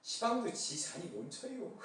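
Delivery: easygoing Chungcheong dialect reading; mild Chungcheong dialect delivery. Pretend. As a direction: lay back into a gentle Chungcheong dialect. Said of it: "충청도 버전".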